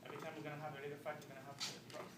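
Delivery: soft, hesitant asking; subdued, earnest questioning. Acted. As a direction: ask it softly, taken aback. Husband subdued after divorce demand.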